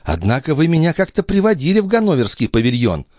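put-on high girlish voice, gently reproaching; a young maid chiding the duke; reproachful maid. Maid reproaching the duke over the pavilion, high voice. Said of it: "с укором заметила Николь".

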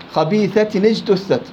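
slow خبيثة نجتثت with the tanween voiced as nun before نجتثت; slow recitation example; moving nun of tanween. Shown as a demonstration. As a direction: read خبيثة نجتثت with a clear ni. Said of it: "ليش النون هنا ليست ساكنة".

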